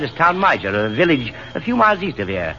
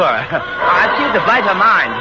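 laughing; 4 semitones higher, slower than usual. Acted. Laughing remark in a train compartment.

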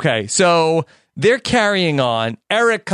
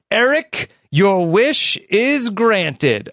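mock wish-granting; 2 semitones higher, slower than usual.

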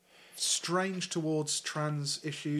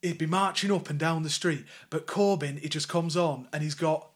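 put-on Lancashire storyteller voice; Burnley accent. Voicing the interviewee comparing Corbyn, Burnley accent. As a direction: keep up the Northern English impression. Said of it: "he wrote it in a Burnley accent".

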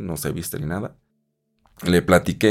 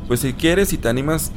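inviting; 8 semitones higher than usual. Retold or imitated. América invites him.

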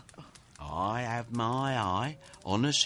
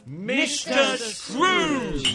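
calling out; 8 semitones higher, much slower than usual. Acted. Bob toasts, calls out Scrooge's name.

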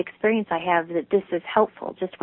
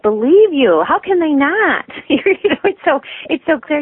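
louder, higher gush of agreement, laughing at the end; excited agreement; 5 semitones higher, 6 dB louder than usual. Real, not acted. Host gushing to guest about her sincerity, excited and laughing. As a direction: burst out in delighted agreement.

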